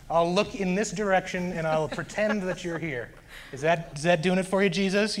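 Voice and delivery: half-hearted try, testily checking if it will do; a touch of frustrated challenge. Retold or imitated. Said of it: "I was frustrated".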